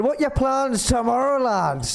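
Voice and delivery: lightly voiced pirate, high start; a hint of a jolly pirate. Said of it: "Like pirates".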